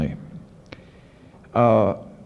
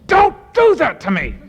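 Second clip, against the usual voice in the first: much higher, louder shriek of protest; retold shriek; 5 dB louder than usual. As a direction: shriek it like a man cornered. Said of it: "and he shrieked".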